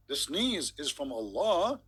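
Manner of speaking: slow, drawn-out incredulous repeat; mock disbelief. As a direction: repeat it as if you can't believe it. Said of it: "That is something".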